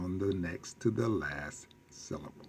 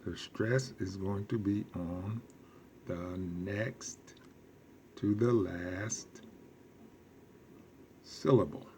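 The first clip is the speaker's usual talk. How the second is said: softer repeat of the rule; 6 dB quieter than usual. Shown as a demonstration. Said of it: "repeating the rule softly".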